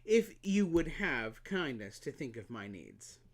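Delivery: a hint of a spoiled flower; demanding flower. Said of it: "she added".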